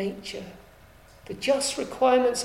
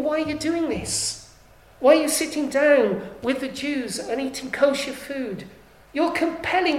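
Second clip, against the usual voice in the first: louder and louder, forceful pulpit rebuke; preacher thundering Paul's challenge to Peter; rebuking Peter; 3 semitones higher, 6 dB louder than usual. Acted. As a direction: confront him, building to a near-shout. Paul rebuking Peter before all.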